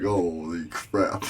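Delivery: drawn-out, amused disbelief; mock shock. Dreamer reacts to werewolf popping tires, drawn-out mock shock. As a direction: stretch it out in half-laughing shock.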